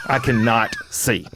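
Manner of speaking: "cannot" slowly pulled apart, weight on "not"; emphatic repeat. Retold or imitated. Husband telling wife he is blind, slow emphatic "cannot". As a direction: drag out "cannot see" word by word.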